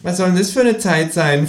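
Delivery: high-pitched puzzled kangaroo; high, querying talking-animal voice. A narrator's reading. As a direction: ask it in a high creature voice. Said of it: "fragte das Känguru".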